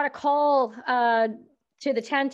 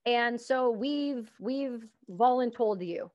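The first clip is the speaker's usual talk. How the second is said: retold order; much slower than usual. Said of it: "I got a call and they said".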